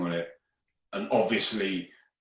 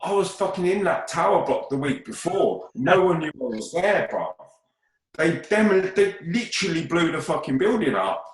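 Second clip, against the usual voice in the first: high, loud and worked up; can't believe how close it was; excited disbelief; 9 semitones higher, 5 dB louder than usual. Real, not acted. Excited disbelief at tower demolition.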